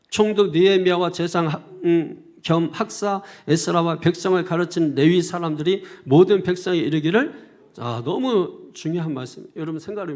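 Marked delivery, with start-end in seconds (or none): 0.1-7.5 loud, declaimed Bible reading; scripture reading. Real, not acted. Preacher reads the passage to the congregation, loud scripture reading. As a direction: read the passage out firmly to the congregation.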